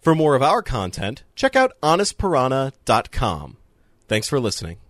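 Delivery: measured podcast outro read; credits read. Acted. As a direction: read the closing credits slowly and deliberately.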